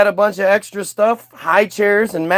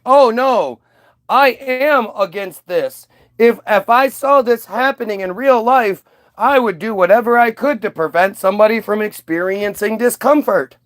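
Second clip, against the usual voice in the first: mock goody-goody voice; 3 semitones higher than usual. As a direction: lightly parody someone faking virtue. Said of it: "try to make it sound like".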